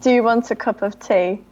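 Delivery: second careful go at an English accent; attempted English accent. Shown as a demonstration. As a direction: have a modest stab at sounding English. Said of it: "I thought that I sounded exactly like you".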